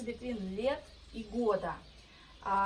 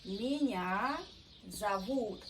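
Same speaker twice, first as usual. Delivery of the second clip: Меня зовут, with the stress landing on -вут of зовут; slower than usual. Shown as a demonstration. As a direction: lean on the end of зовут. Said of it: "pay attention on stress".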